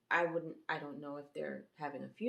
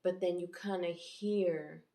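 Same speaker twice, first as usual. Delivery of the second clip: normal talking voice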